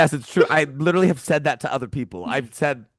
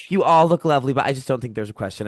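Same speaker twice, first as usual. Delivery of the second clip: rude; faster than usual. Retold or imitated. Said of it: "Helen is being so rude and being like".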